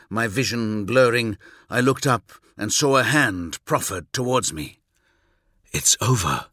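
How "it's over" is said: deep, steady soldier; calm low commanding voice; low gruff warrior voice. Acted. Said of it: "said Corax".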